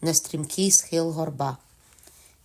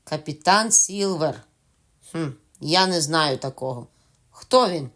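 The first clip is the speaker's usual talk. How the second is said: mock puzzled call; 4 dB louder than usual. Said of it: "гукнув капітан".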